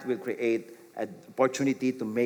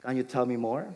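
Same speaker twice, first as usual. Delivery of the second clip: gentle invite; 2 semitones lower, 3 dB quieter, faster than usual. Shown as a demonstration.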